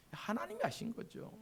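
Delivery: soft hushed aside. Real, not acted. Whispered repeat of the point.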